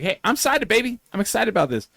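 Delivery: put-on high, excited old showman; old wrestler impression. Imitating Jimmy Hart hyping the panel, high and excited. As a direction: crow it out like a hyped manager. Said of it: "he's like".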